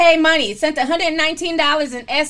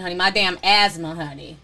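coughing; 6 semitones lower than usual. Real, not acted. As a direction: voice rough from coughing. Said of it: "excuse me, I'm still coughing".

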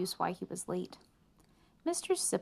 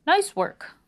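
pleased; 11 semitones higher, 9 dB louder than usual. A narrator's reading. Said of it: "said Mister Sipple".

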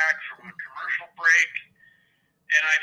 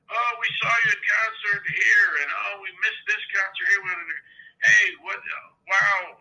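imitating excited fan; 5 semitones higher than usual. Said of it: "he's just freaking out".

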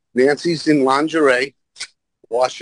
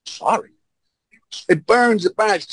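higher-pitched mock pleading; imitated crying apology; 8 semitones higher than usual. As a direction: imitate a tearful, whiny apology. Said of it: "She's crying".

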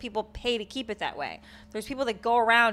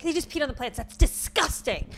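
imitated outrage, raised pitch, dragged-out ending; scolding scream; 5 semitones higher than usual. Retelling a lady disgusted at a dog, mock scolding. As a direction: mimic a disgusted stranger telling you off. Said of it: "screaming at me".

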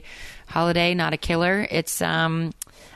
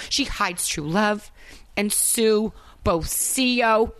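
put-on cheesy Jersey Italian accent. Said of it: "Italian American Jersey".

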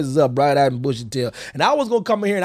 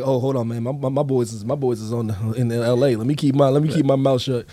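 lower aside voice; 4 semitones lower than usual. Retold or imitated. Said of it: "I'm like".

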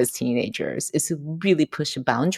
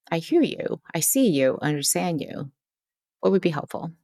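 soft reassuring; 5 dB quieter than usual. Shown as a demonstration. Calmly to an upset person, soft and reassuring. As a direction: gently let them feel heard. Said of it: "that one little bit of a pause".

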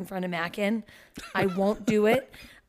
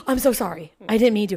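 loud, mortified apology; flustered apology; 7 dB louder, faster than usual. Retold or imitated. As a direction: gasp and apologize in a rush.

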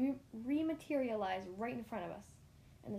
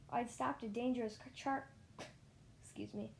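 a real breathy laugh; laughing at a slip. Real, not acted.

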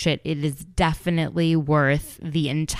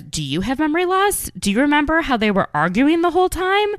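imitating Melissa; 10 semitones higher, faster than usual. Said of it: "Melissa says".

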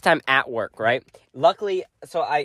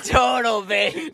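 mock hype; 4 semitones higher, much slower than usual. Both hosts hype the babe joke.

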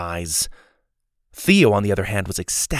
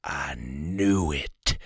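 slow, breathy secret whisper; old man whispering in awe; 7 semitones lower, 7 dB quieter, much slower than usual. A narrator's reading. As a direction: hush it, barely audible. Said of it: "he whispered".

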